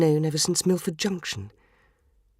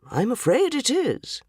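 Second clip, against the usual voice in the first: sadly; 4 semitones higher than usual. Acted. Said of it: "said the inspector sadly".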